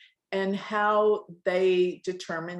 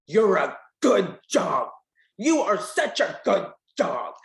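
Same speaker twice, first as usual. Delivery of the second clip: louder, cooing praise; sweet praising tone; 4 dB louder than usual. Shown as a demonstration. Praising a good dog, sweet cooing tone. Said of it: "that will make the dog scared".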